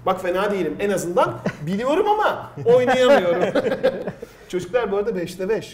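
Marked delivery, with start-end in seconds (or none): 0.8-4.5 stifled giggles. Real, not acted. Host laughing at own quiz answer.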